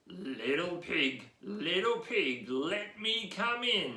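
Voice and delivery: slow, coaxing wolf voice; storybook wolf at the door, lightly voiced; big bad wolf. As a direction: lure the pig out slowly. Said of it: "the big bad wolf said".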